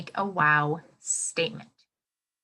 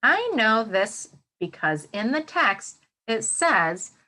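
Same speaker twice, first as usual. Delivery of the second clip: slow model sentence; slower than usual. Shown as a demonstration. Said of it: "So I'm gonna use".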